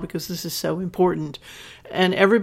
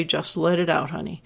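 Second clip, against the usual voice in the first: soothing comfort; 4 dB quieter than usual. Shown as a demonstration. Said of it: "that's providing a safe space".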